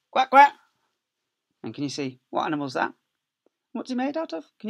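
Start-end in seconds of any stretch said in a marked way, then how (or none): 0.1-0.5 high, loud duck quacks; quacking duck. Acted. Imitating ducks in story.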